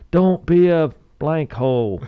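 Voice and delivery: slow, high imitated team chant shout. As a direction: bellow it like a whole football team answering. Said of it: "the whole team shouts".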